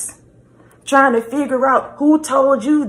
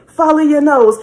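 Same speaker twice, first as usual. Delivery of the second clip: repeated mascot catchphrase, a bit higher and louder; Toucan Sam slogan; 4 semitones higher, 4 dB louder than usual. Retold or imitated. Repeating Toucan Sam's saying for emphasis, mildly sing-song. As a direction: lightly chant it again like the cereal ad. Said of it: "That's his saying".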